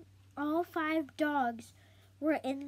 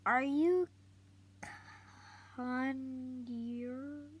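little sister. Acted. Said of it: "Samantha asked".

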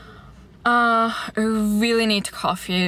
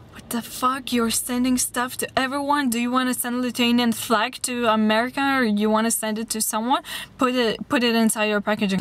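mock angry outburst; 3 semitones higher than usual. Mad customer berating her about her packages, imitated outburst. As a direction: imitate an indignant man, without shouting. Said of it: "He was so mad on everyone".

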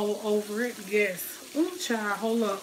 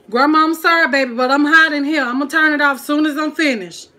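loud, raised-pitch apology called to grandma; calling out; 4 semitones higher, 9 dB louder than usual. Real, not acted. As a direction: holler an excuse across the house.

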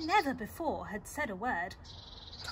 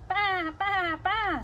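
high, loud repeated baas; sheep's bleat; 7 semitones higher, 7 dB louder, much slower than usual. Acted. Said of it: "said the fat red hen".

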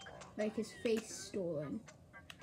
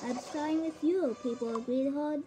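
dark lord villain; 2 semitones higher than usual. Acted. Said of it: "Dark Lord, P E teacher".

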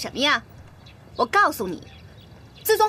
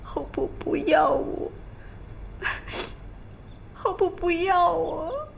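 soft, slow, broken whisper; rejected girl weeps to her aunt; whispered sobbing; 5 dB quieter, slower than usual. Acted. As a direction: choke the words out through tears.

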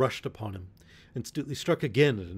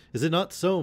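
rousing question; 7 semitones higher, 4 dB louder than usual. A narrator's reading. Robin rousing his men.

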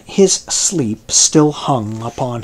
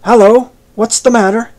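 higher, louder gruff call; growling sailor; 9 semitones higher, 5 dB louder than usual. Acted. Forecastle man woken by Billy's voice, gruff call. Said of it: "here came growling from a forecastle man".

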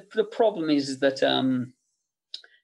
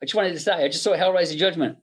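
raised, excited, amazed boss voice; higher, lively mock of an impressed producer; imitating Bob's praise; 4 semitones higher than usual. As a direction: gush with surprise down the phone. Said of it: "he was like".

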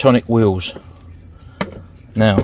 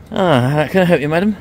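shop assistant voice; 4 semitones higher, 4 dB louder than usual. Pretend. Playing shop assistant to wife.

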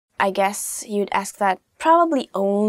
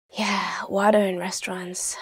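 a quick hushed whisper; whispered aside; 2 semitones lower, 5 dB quieter than usual. Real, not acted. Teacher whispering a side note to viewers, softly. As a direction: lean in and whisper the tip.

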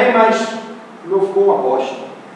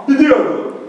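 a light take on the singer's voice; mild crooner impression; 2 semitones higher, slower than usual. Shown as a demonstration. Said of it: "tem que trocar M pelo B".

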